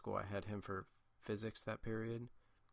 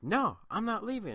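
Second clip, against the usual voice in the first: much higher and louder, a shrill retold yell; yelling refusal; 12 semitones higher, 10 dB louder than usual. Girl yelling at the teacher that she won't leave. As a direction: shout it back, refusing to budge. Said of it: "And she started yelling".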